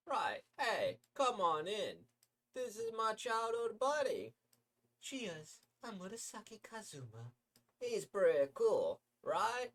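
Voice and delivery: tugging a buddy along, loud and high; high loud cheery pal; excited friend voice. Acted. Voices friend introducing Murasaki.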